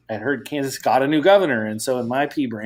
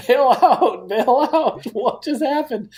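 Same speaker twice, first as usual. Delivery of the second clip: high, loud mock panic with a laugh; panicked onlookers; 11 semitones higher, 4 dB louder, slower than usual. Guest voicing Kansas officials' panic, high mock alarm. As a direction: voice the staff's silent urge to bolt. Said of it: "everybody's kinda looking at them like".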